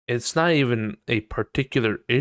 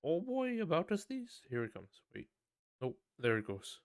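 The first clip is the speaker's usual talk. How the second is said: high, silly mocking voice for someone about to sneeze; mock sneezer; 6 semitones higher, 13 dB quieter than usual. Mocking a fake sneeze, high and silly. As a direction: ham up a sneeze that never comes. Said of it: "it's like".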